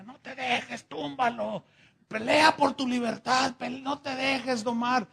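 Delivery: high, urgent cheering on; rally him to keep fighting; urging on. Acted. Pancho in hiding urges Pepe to fight, high and urgent. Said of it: "le decía".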